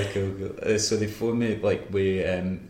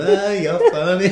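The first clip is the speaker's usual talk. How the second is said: high, loud, slow laughing line; 11 semitones higher, 10 dB louder, slower than usual. Retold or imitated. Stuart mocking James down the phone, laughing hard. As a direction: laugh through it like the joke just landed. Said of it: "just laughing his head off at me".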